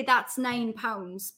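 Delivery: "nine" slowly, with a Geordie "neyn" vowel. Retold or imitated. Bar worker asking for change, Geordie "nine". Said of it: "So in our accent".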